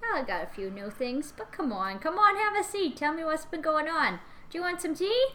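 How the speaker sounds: put-on a sweet chatty old woman; old lady voice. Plays Georgina.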